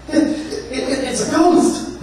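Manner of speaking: terrified stammer. Acted. Disciples terrified at ghost.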